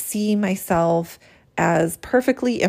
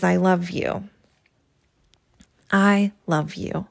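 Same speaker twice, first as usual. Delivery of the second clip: heartfelt journal reading. Acted. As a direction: read each line as a gentle apology to your own soul. Reads step four aloud.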